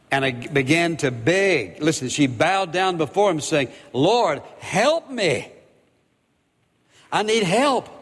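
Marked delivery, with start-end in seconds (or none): 3.9-7.9 high, pleading cry for help; a mother crying out to Jesus for her daughter; desperate plea. Acted. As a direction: beg him, voice lifted in desperation. Woman pleading at Jesus' feet.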